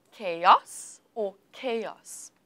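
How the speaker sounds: slow "chaos or chaos", stress moved from first to second syllable; contrasting stress options. Shown as a demonstration. Teacher quizzes student on the stress, contrasting options. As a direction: offer "chaos" both ways, KAY-os then kay-OS, drawn out. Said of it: "where is the stress in this word?".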